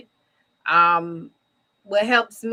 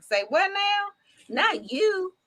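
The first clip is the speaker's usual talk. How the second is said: disbelief; 11 semitones higher than usual. Retold or imitated. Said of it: "a lot of people are like".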